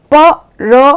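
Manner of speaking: very slow, each letter apart; letters read one by one. Shown as a demonstration. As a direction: spell out र थ म slowly. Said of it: "प्रथम सही है।".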